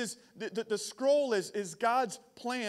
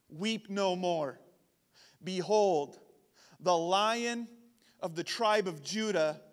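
scripture reading; 2 semitones lower than usual. Acted. Preacher reads the elder's comfort to John, measured.

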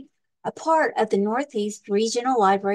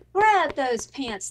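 captain roars; 4 semitones higher, slower than usual. Acted. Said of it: "the captain roars".

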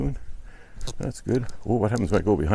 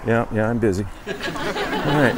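chuckling through the words; laughing; 3 semitones higher, slower than usual. Real, not acted. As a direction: laugh it off, amused. Laughing while passerby calls.

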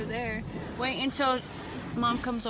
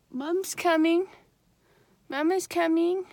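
excited call; 7 semitones higher, 6 dB louder than usual. Real, not acted. Excited call as mom arrives.

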